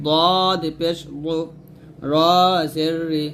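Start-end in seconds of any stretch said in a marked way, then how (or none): 0.1-1.4 "দদ পেশ দু" with a full, emphatic Arabic Dad; thick, heavy Dad. Shown as a demonstration. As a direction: make the d in "দু" heavy and rounded. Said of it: "মোটা করে". ("দদ" মোটা করে উচ্চারণ)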